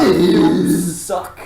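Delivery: high, loud You suck; heckling yell. Retold or imitated. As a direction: heckle the performer loudly. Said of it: "saying, mouthing out".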